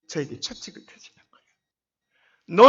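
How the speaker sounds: slow, whispered awe; hushed reverence at divine correction; awed whisper. Real, not acted. God's rebuke described.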